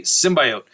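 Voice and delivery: "symbiote" said sim-BY-oat; bio pronunciation. Retold or imitated. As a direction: say "symbiote" with a long "bio" in the middle. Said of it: "how do you pronounce the word biology".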